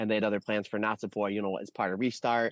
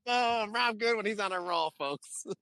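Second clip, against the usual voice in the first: excited hype; 12 semitones higher than usual. Real, not acted. Hyping up co-host's joke.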